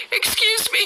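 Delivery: high sing-song mock-innocent question; mock polite question. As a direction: play the naive girl asking a stranger. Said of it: "I would walk up to him and I'm like".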